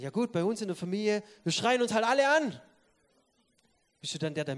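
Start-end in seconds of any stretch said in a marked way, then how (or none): 0.0-2.6 mock excuse. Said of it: "Ich sage".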